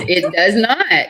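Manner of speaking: laughing through the words. Real, not acted. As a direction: chuckle as you say it. Laughing agreement repeated.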